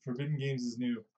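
booming promo read for a new expansion; mock announcer. Announcer-style game plug.

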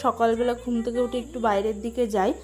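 talking around a toothbrush; while brushing teeth. Real, not acted. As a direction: mouth full of toothpaste. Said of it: "এখন brush করতে করতে".

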